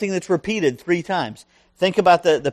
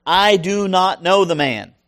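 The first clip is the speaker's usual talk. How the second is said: sworn denial; 3 semitones higher, 3 dB louder than usual. Retold or imitated. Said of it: "to invoke a curse upon himself and to swear".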